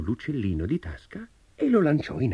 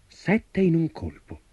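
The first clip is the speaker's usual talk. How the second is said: high, drawn-out marvel at the feat; amazed exclamation; 9 semitones higher, slower than usual. A narrator's reading. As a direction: exclaim it slowly, pitched up. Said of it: "esclamò il giovane".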